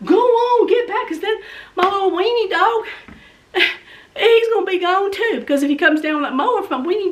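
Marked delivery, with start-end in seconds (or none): 0.1-1.1 high urgent shoo; shooing the dog. Retold or imitated. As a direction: shoo the little dog away. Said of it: "I'm trying to go".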